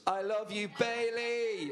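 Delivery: high, drawn-out mock squeal; mock fan scream. Host imitates a fan who loves Bailey, high mock scream. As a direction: imitate a screaming fan without full volume. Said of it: "is what she screams".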